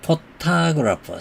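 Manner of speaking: 포토그래퍼, stressed on the middle syllable 토그; 포토그래퍼 with the stress in the middle, said carefully; photographer pronunciation. Shown as a demonstration. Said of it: "이 발음 조심하셔야 됩니다". (포토그래퍼 중간 음절에 강세를 넣어 또박또박)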